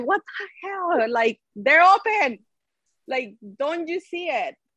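put-on frustrated, exasperated yell, high-pitched. Retelling screaming at the tv during the game: imitating own screaming. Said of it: "I was screaming at the T V".

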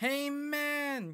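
high-pitched mock broken English.

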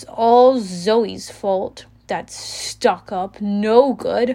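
voice full of open disgust. A girl blames another girl for the situation, disgusted. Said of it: "Talia said, disgusted".

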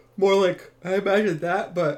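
high, loud words stretched by a yawn. Discussing how they imagine a demon's voice, yawning while talking. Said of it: "sorry, I'm yawning".

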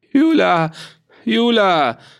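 high-pitched, bellowing, roaring call. Runotter calls for his people while his cattle are seized, bellowing. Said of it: "brüllte Runotter".

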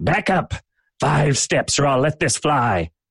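rough-edged, gruff, rough voice. Game master voices someone behind a door holding a crossbow, gruff voice. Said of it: "A gruff voice says".

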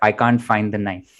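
ordinary talk, nothing marked

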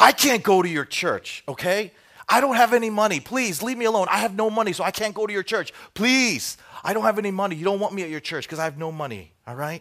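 loud, high-pitched yelling at the top of the lungs. Retelling a man yelling at a woman who invited him to church, retelling a yell. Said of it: "he yells at the top of his lungs".

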